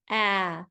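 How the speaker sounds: "Ah" as the short A in cat, held alone; short A sound. Shown as a demonstration. Teacher sounding out baboon for spellers, isolated short A "Ah". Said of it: "What letter makes the ah sound?".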